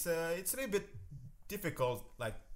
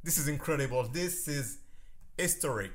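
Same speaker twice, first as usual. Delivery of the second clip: much higher, much louder, stretching out holy shit; thrilled outburst; 6 semitones higher, 6 dB louder than usual. Real, not acted. Host alone after the cast hangs up, yelling in real delight. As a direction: burst out in real disbelief at the call.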